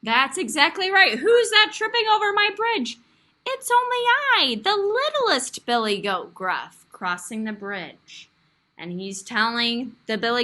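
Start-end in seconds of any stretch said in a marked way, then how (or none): 1.2-3.0 loud, higher troll challenge; hammed-up troll. Teacher voices troll character. 3.4-8.3 little goat voice. Acted.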